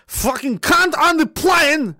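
high, slow, hammed-up scream on request; mock scream. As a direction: scream it out slowly for chat. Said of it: "Can you please scream".

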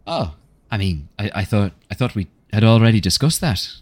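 evasive innkeeper. Acted. Vice explains himself under questioning.

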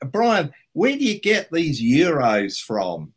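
high, slow, puzzled friend voice; imitating Richard. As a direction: play the bewildered mate, slow and high. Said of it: "Richard suddenly said to me".

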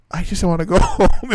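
high, comic plaintive whine; hammed-up weary plea; mock whining. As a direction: imitate begging to escape. Retold tired plea to leave.

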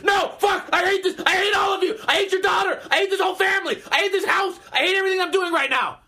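very high, shouted hate rant; exasperated outburst. Retold or imitated. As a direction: blow up completely, each sentence a fresh burst. Snaps at the repetitive drunk.

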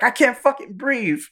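high-pitched imitation of a panicked victim; mock choked panic. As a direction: squeal it as if being squeezed, hammed up. Retold victim crying out while squeezed.

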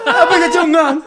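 high, loud thick-tongued wail; swollen-tongue speech. Retold or imitated. Man confessing his piercing, distressed garble. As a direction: force the words past a swollen tongue. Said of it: "Så jag kan ju inte prata".

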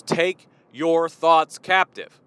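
"Take your thoughts captive" said slow and weighty, leaning on thoughts; slow, emphatic scripture quote; stressed and slow. Shown as a demonstration. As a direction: spell out each word deliberately. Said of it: "That's not what that says at all".

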